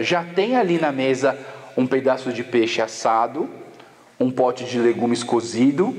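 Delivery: low, lightly voiced stern Japanese father; firm explanation. Japanese guest explains the breakfast rule to the mother, firm and low. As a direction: calmly lay down the rule. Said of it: "Aí ele falou".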